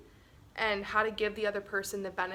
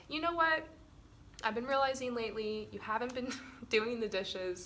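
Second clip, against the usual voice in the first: calm confrontation demo. Shown as a demonstration. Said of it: "and then I'll be like".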